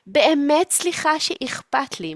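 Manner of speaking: high-pitched, huffy non-apology; mock insulted. Mother cut off by her son, mock insulted. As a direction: apologize as if deeply wounded. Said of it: "היא כל כך נעלבת, she's so insulted".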